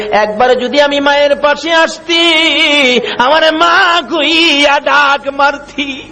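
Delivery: sung plea of a hurt mother, swelling high; keen melodically for an absent child; acted weeping lament. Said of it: "মা কান্দে". (সুর করে কান্নার অভিনয়)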